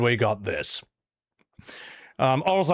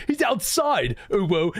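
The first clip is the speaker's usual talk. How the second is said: mock Palmer reply; 5 semitones higher than usual. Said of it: "He's like".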